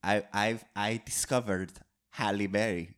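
a light, hammed-up French accent. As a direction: play a self-important French director. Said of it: "I love your French accent".

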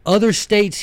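mild mock excitement; rising quote. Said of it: "he said".

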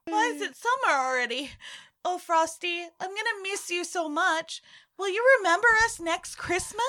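high, pleading melodramatic farewell; tearful goodbye. Pretend. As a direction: overact a weepy goodbye to a friend. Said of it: "Dramatically say goodbye to Frosty the Snowman".

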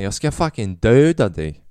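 a loud, lightly put-on Skåne accent threat. Comedian replaying his dream threat to a stranger, loud mock Skåne accent. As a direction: bark the threat in a half-hearted Skåne accent. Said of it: "från Skåne".

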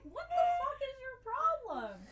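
high, loud, laughing exasperation; exasperated yell. Retold or imitated. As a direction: yell at the dog, half laughing. Yelling at whining dog.

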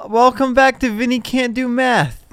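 high, loud mock announcer intro; mock show host. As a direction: announce it like a silly show opener.

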